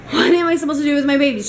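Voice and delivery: fast, worked-up re-enacted plea; exasperated pleading. Retold argument with front desk.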